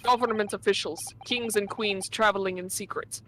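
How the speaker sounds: put-on thick Russian accent, dropped articles. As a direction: play a gruff Russian steward. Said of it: "doing a better job with the Russian accent".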